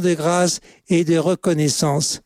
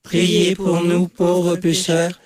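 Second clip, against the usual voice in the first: level, monotone rosary chant; choral prayer response. Real, not acted. Congregation answering the leader in the Hail Mary, monotone prayer. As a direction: draw the words out evenly, all together.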